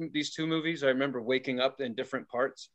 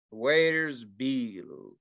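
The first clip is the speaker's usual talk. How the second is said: imitated Colombian accent, drawn-out words; foreign accent from Colombia; 2 semitones lower, much slower than usual. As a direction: put on a Colombian pimp's accent. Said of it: "and he has an accent".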